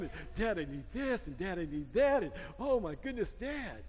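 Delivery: lightly voiced daughter listing demands; a hint of a whiny girl asking Dad; mock pleading daughter. Pastor imitates daughters asking Dad for things, mildly whiny.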